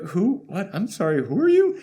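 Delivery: feigned bewilderment, rising at the end; mock confusion. Aquaman brushing off his rival, mock baffled. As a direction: play dumb, baffled.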